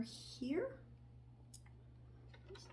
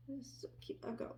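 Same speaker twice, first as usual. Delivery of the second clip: whispering; 11 dB quieter than usual. Real, not acted. Cooing over finished tiny hat.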